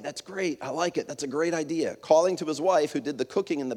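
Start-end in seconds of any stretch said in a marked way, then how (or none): 0.0-1.9 a restrained, glad approval; measured delight. Retold or imitated. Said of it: "answered with measured delight".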